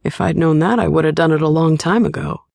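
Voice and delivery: lightly voiced charming partner; playful and heated; flirty Shane. A narrator's reading.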